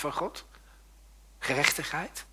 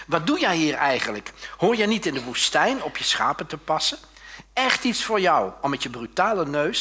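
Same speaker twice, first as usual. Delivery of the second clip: loud scolding big brother; a scolding rebuke; angry older brother; 3 semitones higher, 5 dB louder than usual. Acted. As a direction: tell him off loudly. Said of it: "viel hij woedend uit".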